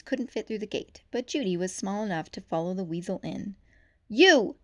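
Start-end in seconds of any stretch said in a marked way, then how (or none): 4.1-4.6 sharp, loud call, higher; forceful yell. A narrator's reading. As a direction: stop him with one word. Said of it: "she yelled forcefully".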